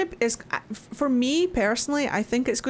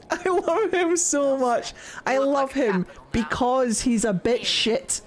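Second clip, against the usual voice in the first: fond gushing; slower than usual. Real, not acted. Gushing fondness for character.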